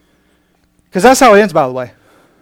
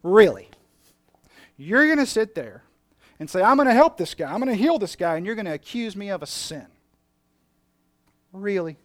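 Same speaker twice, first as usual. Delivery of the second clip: incredulous challenge; 3 semitones higher than usual. Acted. Preacher voicing Jesus confronting critics.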